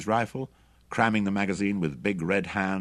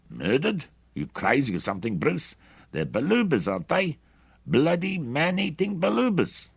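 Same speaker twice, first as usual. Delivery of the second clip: higher, louder, scornful yelling; angry shout; 9 semitones higher, 4 dB louder than usual. A narrator's reading. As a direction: throw the word back at him in a rage. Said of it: "shouted Hendry angrily".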